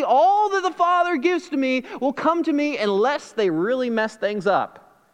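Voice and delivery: sarcastic misquote that slows on the last words; mock wrong version. Shown as a demonstration. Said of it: "He doesn't say".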